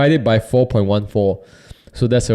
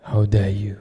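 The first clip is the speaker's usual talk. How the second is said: The Godfather. Acted. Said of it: "old movie scenes, like The Godfather".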